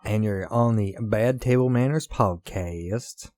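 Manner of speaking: slow, drawn-out country twang; slow hillbilly announcer twang. Real, not acted. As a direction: lay on a slow rural twang. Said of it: "I don't even know why I sound like that".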